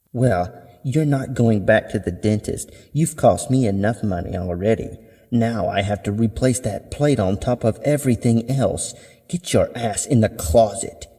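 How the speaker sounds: mildly angry scolding mother; stern, fed-up mother. Acted. Mother scolds daughter over plate and money, mildly angry. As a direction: lay down the law as an irritated mother.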